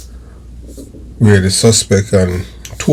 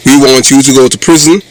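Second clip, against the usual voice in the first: loud, punchy channel intro; announcer voice; 3 semitones higher, 4 dB louder than usual. Acted. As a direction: proclaim it like a radio announcer. Loud channel intro over music.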